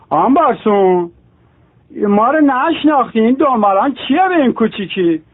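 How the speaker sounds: a hint of a street tough, pitch rising; tough guy complaint. Tough regular to shopkeeper, lightly voiced street tough. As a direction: tough guy scolding the shopkeeper, mock indignant.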